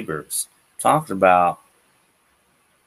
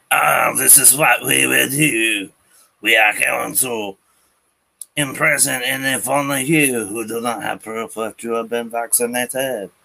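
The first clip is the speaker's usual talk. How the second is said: mock government official; 5 semitones higher than usual. Ranter mocking French government decree, higher pompous voice. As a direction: lay down the law smugly.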